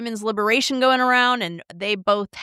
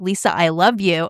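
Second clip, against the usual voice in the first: tender friend; 3 semitones lower than usual. Retold or imitated. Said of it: "It's just like".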